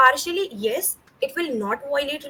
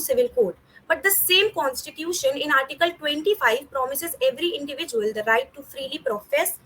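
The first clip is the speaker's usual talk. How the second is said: formal speech delivery; reciting a prepared speech; memorized speech. Acted.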